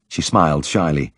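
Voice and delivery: ordinary delivery, nothing marked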